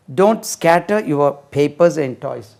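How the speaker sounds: slow, clear model sentence. Shown as a demonstration. Teacher modelling slowly for students to repeat. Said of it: "model sentence".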